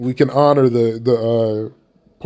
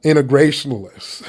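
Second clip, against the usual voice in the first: integrationalists? repeated with a mocking disbelieving fall; integrationalists? echoed as if absurd; incredulous echo. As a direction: stumble on Inter- then scoff integrationalists?.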